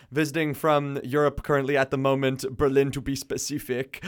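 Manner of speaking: a hint of a badly faked German accent. Host naming guest's city to radio listeners, bad German accent. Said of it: "that was a terrible accent".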